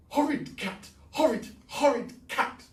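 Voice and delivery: put-on very high wailing old lady; shrill Miss Gum. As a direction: wail it out in high distress.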